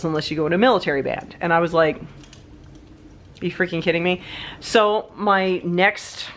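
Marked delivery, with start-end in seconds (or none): 2.0-4.2 slow, soft muttered disbelief; disbelieving mutter. Retold or imitated. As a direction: mutter it as if you can't believe it. Told euphonium has no future.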